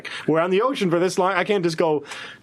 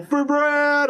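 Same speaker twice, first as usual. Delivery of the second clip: toast shout; 9 semitones higher than usual. Acted. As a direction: raise a glass and shout it. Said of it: "they go".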